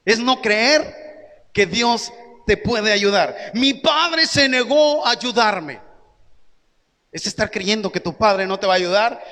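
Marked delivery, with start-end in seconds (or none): 3.5-5.8 slow, put-on voice of a believer who feels abandoned; doubting believer. Pastor voicing a hurt believer to the church, slow and put-on. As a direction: voice the believer who thinks the father won't help, slowly.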